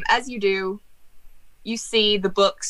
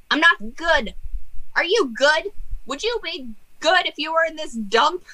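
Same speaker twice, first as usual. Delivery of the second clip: higher, whiny jester complaining; grumpy jester ghost; 8 semitones higher than usual. Acted. Ghost jester grumbling to the cat about his dump, higher pitch. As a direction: moan like a sulky ghost jester.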